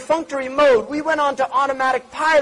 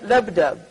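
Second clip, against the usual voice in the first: heartbeat sound; 5 semitones lower than usual. Shown as a demonstration. Showing the sound of the heart: low mimicked beat. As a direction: say "Labdab" like a heartbeat, lab then dab. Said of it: "they call it labdab".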